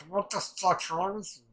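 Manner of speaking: retold exasperated questioning; imitated outrage. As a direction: act out an appalled demand. Acting out outrage at Gabby.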